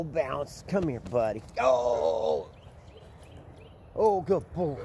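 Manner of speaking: high, coaxing voice for a puppy. Real, not acted. Coaxing McGee to come play, high and cooing. Playing with dog, baby talk.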